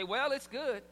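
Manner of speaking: lukewarm "Well, it's good"; grudging well. Retold or imitated. Husband lukewarmly judges wife's dinner, unimpressed. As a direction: let "Well" hang, unimpressed. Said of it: "He would just say".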